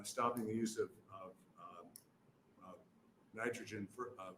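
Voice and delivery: stumbling and restarting words in a rush; real stammer from trying to hurry. Real, not acted. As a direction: trip over the words, with uhs and false starts. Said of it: "I'm stammering 'cause I'm trying to talk fast".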